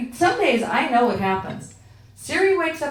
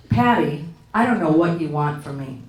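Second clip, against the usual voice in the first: a touch of exasperated attitude; mildly fed-up digital assistant, imitated; Siri with attitude; 6 semitones lower than usual. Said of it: "in this tone of voice".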